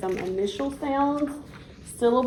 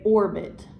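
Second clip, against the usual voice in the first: "orbit" slowly, first syllable slightly stronger; stress on OR in orbit. Shown as a demonstration. Teacher modelling for the child to repeat, "orbit" stressed on "or". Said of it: "said a tiny bit louder".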